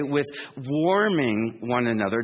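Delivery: warming drawn out slowly and leaned on; slow, deliberate warming; stress on warming. Shown as a demonstration. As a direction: say warming slow, with weight on the word warming. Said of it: "W A R M I N G".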